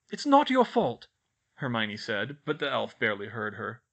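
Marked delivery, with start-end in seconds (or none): 0.1-1.1 high, loud statement falling at the end; insistent reassurance. A narrator's reading. Girl to self-blaming elf, insistently reassuring. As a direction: assure him firmly, voice raised.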